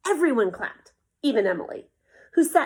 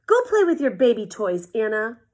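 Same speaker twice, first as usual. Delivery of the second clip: taunting; 8 dB louder than usual. Acted. Felix taunting his sister.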